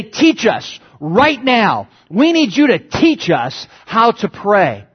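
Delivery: slow insistent grab-the-shoulder plea; emphatic plea. Retold or imitated. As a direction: Teach us right now, right drawn out slowly. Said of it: "kind of grab Jesus by the shoulder and say".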